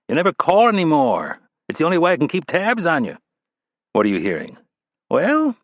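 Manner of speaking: a wisecracking spy boss filling him in; smartass deputy director. Acted. Ridley briefs Rapp.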